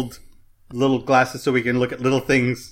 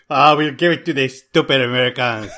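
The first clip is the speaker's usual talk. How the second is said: mock French accent. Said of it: "That's French".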